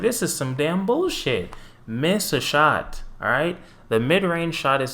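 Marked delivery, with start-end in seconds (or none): 0.0-3.6 annoyed rant. Retold or imitated. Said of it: "I'm like".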